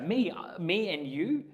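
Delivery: high, startled squeak of surprise; a girl caught staring, feigning innocence; mock surprise. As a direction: play her caught off guard. Girl caught, playful accusation.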